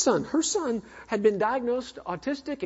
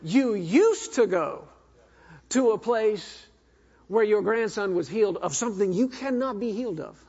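incredulous inner thought. Retold or imitated. Preacher silently marvels at grandmother leaving, incredulous. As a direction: spell out the absurdity, pausing between phrases. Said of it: "In my head was".

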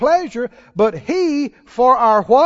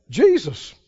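normal talking voice

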